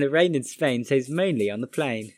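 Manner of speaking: British elocution drill; demonstrated British accent, crisp recital. Shown as a demonstration. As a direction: recite it in careful put-on British vowels. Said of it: "say well-known sentences".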